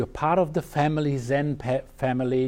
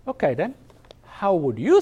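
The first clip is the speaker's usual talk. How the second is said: Mishi's challenge; 6 semitones higher, 4 dB louder than usual. Retold or imitated. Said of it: "Mishi said".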